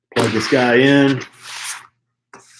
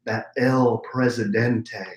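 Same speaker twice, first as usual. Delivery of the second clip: Sean voice. Pretend. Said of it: "now I'm going into my Sean voice".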